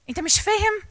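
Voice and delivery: high, exasperated question; can't believe they don't get it; impatient parent. Retold or imitated. Parent scolding a struggling child, exasperated and high.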